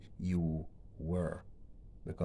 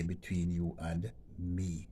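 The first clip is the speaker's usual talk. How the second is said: slow, careful reading of "Between you and me"; slower correct version; slower than usual. Shown as a demonstration. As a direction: model the correct form slowly. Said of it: "Always say".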